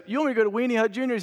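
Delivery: high, fast, disbelieving question; incredulous protest. Acted. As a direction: act out an affronted protest at being sent away. SpongeBob acted as indignant at banishment.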